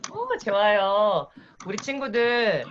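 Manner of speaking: kindergarten teacher voice. Shown as a demonstration. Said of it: "유아라고 가정하고 제가 수업을 진행해 볼 테니까".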